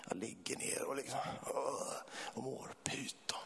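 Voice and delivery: low, hushed, sinking into a near-whisper; utmattat och eländigt. Retold or imitated. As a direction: murmur it weakly, as if lying there wretched. Acting out being ill among homeless. (lågt, utmattat, nästan viskande)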